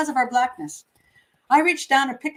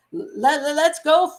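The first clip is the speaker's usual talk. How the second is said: stuttering; 4 semitones higher, 4 dB louder, slower than usual. Retold or imitated. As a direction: stutter on "Let" before "let's go". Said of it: "Reuben had to stutter".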